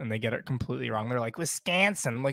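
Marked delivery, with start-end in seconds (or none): 1.4-2.1 fake Midwestern accent. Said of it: "people that aren't from the Midwest trying to do a Mi-, uh, Midwestern accent".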